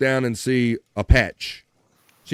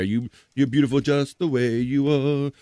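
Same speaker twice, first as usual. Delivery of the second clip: mock reassuring. Reassures the bikini model.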